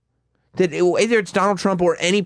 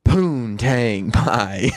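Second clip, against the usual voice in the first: imitating the Rock; much slower than usual. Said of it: "The Rock would go".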